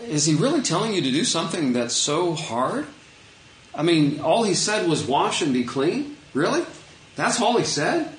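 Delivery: half-playful "really?" as servants pleading; incredulous servants. Retold or imitated. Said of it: "Naaman's servants who are like".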